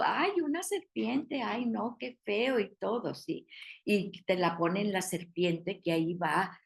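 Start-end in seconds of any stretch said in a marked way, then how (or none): 0.0-2.6 higher, mock squeamish "ay, no" at a snake; mock squeamish disgust. Teacher imitating how people react to a snake, mock disgust. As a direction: imitate someone recoiling from an ugly snake. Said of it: "generalmente dices tú".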